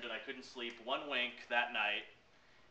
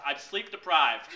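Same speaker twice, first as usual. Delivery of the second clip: frazzled; 3 semitones higher, 9 dB louder than usual. Retold or imitated. Frazzled retort while laughing.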